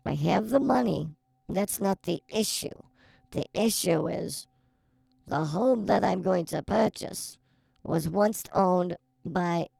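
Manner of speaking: slow, deliberate reading of a listener letter; letter read aloud. Acted. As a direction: read the letter out like a radio host. Reads caller's letter aloud.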